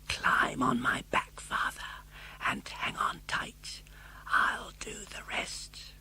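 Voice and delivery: soft, slow whisper. Acted. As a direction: hush it close in his father's ear. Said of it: "Pinocchio whispered".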